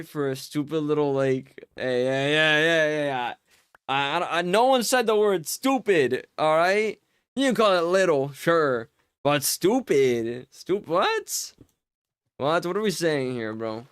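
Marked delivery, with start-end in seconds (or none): 4.4-11.5 mock offended.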